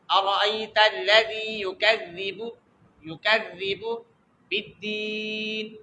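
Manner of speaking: slow, careful recital of "یکذب" with soft dh, never z; soft dhaal. Shown as a demonstration. Teacher models for students, "یکذب" slow with soft dh. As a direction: draw out "بالدین", softening to the end. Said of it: "اس کو زی نہیں پڑھیں گے".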